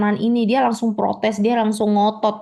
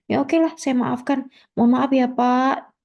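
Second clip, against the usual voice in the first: grudging acceptance; 5 semitones higher than usual. Acted. Customer accepts apology.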